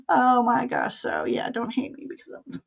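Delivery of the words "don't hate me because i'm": put-on British accent. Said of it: "in her British accent".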